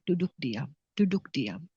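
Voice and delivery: hushed advice. Retold or imitated. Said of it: "saya bilang".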